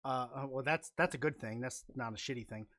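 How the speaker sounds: talking with a numb face; numb from the dentist. Real, not acted. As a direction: mouth half numb after a root canal. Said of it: "half of my face is still numb".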